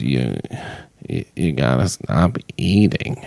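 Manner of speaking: low put-on doctor voice; blunt low doctor scolding a patient; doctor impression. Host impersonating the doctor telling patients to stop eating, low voice. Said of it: "that's my impression".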